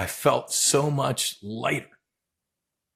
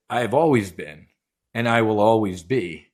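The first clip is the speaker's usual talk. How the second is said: lightly voiced, lower and unhurried reassurance; loving God; 3 semitones lower than usual. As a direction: retell it as gentle, steady assurance. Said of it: "it was very loving".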